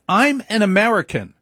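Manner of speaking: high-pitched imitation of an old grandmother; grandmother's denial. Grandmother voiced insisting.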